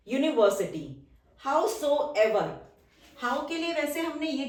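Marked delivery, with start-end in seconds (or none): 1.4-2.5 very drawn-out, syllable by syllable; slow dictation. Shown as a demonstration. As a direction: stretch it out for the class to write. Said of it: "teacher dictates word slowly". (बहुत धीमे खींचकर बोलना)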